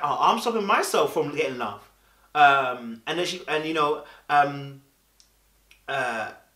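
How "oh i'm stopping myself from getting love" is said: put-on accusing tone laced with sarcasm. Retelling what Sunday said back to Spinderella: imitating Sunday's sarcasm. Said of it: "the sarcasm that she used".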